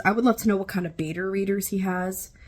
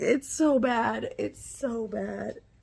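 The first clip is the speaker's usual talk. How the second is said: slow words squeezed out through laugh-tears; 3 semitones higher, 3 dB quieter than usual. Reacting to a book's climax scene: crying with laughter. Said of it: "I'm crying".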